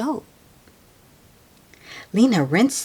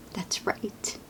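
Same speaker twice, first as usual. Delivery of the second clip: soft unvoiced agreement; whisper; 2 semitones higher, 11 dB quieter than usual. Real, not acted. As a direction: whisper it to yourself. Whispered aside.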